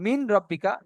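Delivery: "মিন" with a clear n before "রব্বিকা"; "মিন রব্বিকা" with the n left unmerged; wrong n reading. Shown as a demonstration. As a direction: sound the n in "মিন", don't merge it into "রব্বিকা". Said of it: "মিন বললে আর হবে না".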